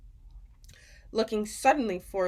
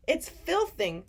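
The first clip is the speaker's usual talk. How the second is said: sputtering; 7 semitones higher, slower than usual. A narrator's reading. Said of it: "he sputtered".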